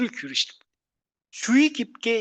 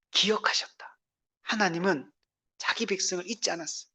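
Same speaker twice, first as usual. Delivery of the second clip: whisper; 7 dB quieter than usual. Real, not acted. Preacher whispers God remembered.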